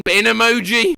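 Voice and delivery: ordinary talk, nothing marked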